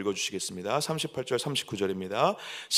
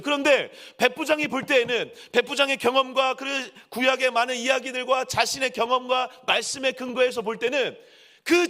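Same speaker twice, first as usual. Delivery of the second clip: high, driving sermon crescendo; impassioned preaching; 11 semitones higher, 5 dB louder than usual. Real, not acted. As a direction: hammer each phrase out to the congregation. Preaches at full force. (열정적으로 외치는 설교)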